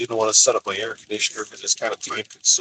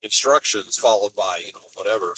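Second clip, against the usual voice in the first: sarcastic. Retold or imitated. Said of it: "I'm like".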